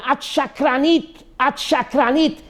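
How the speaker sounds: high-pitched imitated accusation; retold yelling. Shaking rabbi accusing the woman, retold yelling. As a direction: repeat it like a mild mock yell. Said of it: "and he starts yelling".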